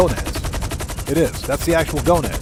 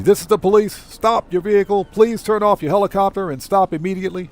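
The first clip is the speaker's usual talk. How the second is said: police megaphone voice, raised pitch; bullhorn with siren; 4 semitones higher than usual. Pretend. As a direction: bark it like a cop on a bullhorn. Mock police stopping a helicopter.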